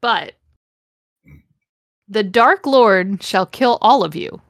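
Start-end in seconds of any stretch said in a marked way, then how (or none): 2.1-4.4 measured, understated threat; mock menacing. Repeating Snape's warning for stunned friends, mock menacing. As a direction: deliver a mildly theatrical warning. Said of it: "Snape ejaculated menacingly".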